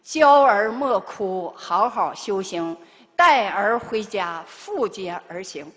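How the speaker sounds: slow, solemn words from above, drawn out; heard divine voice. Retold or imitated. The Buddha comforting his crying child, slow and solemn. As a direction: intone it slowly like a voice from heaven. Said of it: "真是耳边四句话".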